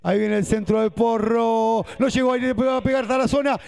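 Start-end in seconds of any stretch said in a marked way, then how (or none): 2.0-3.6 rising shout. Real, not acted. Shot building to a goal.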